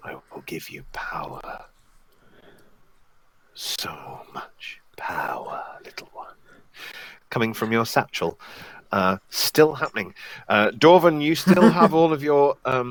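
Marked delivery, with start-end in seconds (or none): 0.0-6.3 very quiet, deep, slow whispering voice. Narrator voicing the voice Night Night hears from the satchel, deep whispering voice. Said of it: "you can still hear a deep, deep voice whispering".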